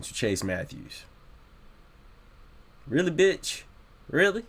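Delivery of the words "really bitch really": high, incredulous outburst; snapped. Real, not acted. Fed up with the mom's apology, snaps at her in disbelief. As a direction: burst out in disbelief, pitch shooting up. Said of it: "Yeah, I snapped".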